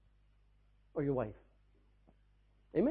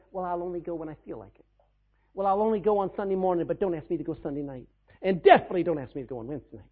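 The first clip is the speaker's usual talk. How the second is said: petulant excuses, last part faster; mock baby believer; 4 dB louder, faster than usual. Lazy member complaining to pastor, petulant whine. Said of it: "a baby that says".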